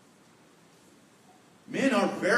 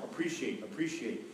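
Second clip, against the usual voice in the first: softer, each word set apart; repeated for emphasis; 4 semitones lower, 5 dB quieter than usual. Shown as a demonstration. Teacher repeating the key word softly. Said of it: "a word you're gonna hear a lot".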